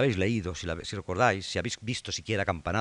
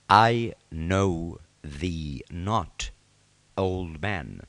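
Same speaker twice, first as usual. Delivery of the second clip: cold royal rejection; 5 semitones lower, much slower than usual. Acted. King coldly rejects old friend.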